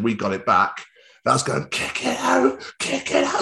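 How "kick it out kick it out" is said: high, strained mock yell without much volume; retold desperate plea to the players; frantic urging. Retelling his frantic urging during match.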